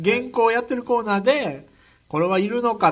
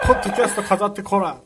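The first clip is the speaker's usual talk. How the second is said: 長州力のモノマネ; 4 dB louder than usual. Retold or imitated. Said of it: "長州力。".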